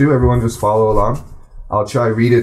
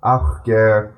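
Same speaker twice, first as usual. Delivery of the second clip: unhurried storytelling read-aloud; slow careful reading; 2 semitones higher than usual. Shown as a demonstration. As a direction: read it slowly in a gentle even flow for learners to follow. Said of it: "I'm gonna read it a bit slower".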